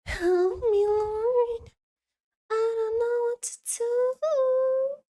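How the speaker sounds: high, loud, hammed-up cry to heaven; begging the Lord in theatrical panic; mock despair. Stuck choosing clothes, she wails a mock plea to the Lord. Overwhelmed by outfit choices.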